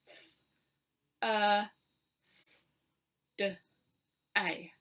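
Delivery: slow phonics segmenting, sound by sound; careful teacher sounding out Thursday slowly. Shown as a demonstration. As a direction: stretch each sound apart, then blend. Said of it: "Let me say it nice and slowly for you".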